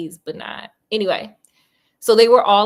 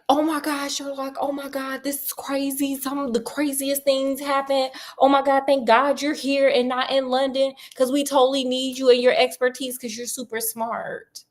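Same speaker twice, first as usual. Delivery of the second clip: higher, breathless excited rush; frantic gushing; 4 semitones higher than usual. Retold or imitated. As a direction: gush like panicked neighbours begging for help. Frantic visitors at the door.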